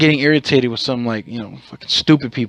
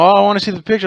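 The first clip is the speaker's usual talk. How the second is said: higher eager wife wanting the photo; imitating eager wife; 8 semitones higher, 3 dB louder, much faster than usual. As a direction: lift it up like the excited wife. Wife's voice in a retold story.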